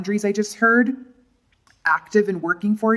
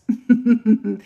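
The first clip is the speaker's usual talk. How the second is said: playful chuckle; 2 semitones higher than usual. Real, not acted. Playful laugh while explaining card.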